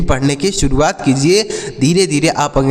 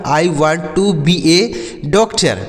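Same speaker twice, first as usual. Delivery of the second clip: slow model sentence; much slower than usual. Shown as a demonstration. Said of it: "ऐसे बोल सकते हैं".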